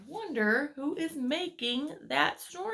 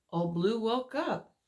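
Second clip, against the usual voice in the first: story narration. A narrator's reading. Reads picture book aloud.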